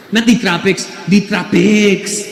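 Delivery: insistent correction in a mock Filipino accent. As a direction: imitate a Filipino woman, drawing out the last word. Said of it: "And she goes".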